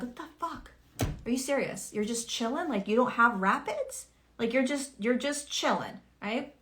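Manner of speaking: high, indignant disbelief; incredulous. Retold or imitated. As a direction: gape at someone who has it easy. Envious disbelief at chilled people.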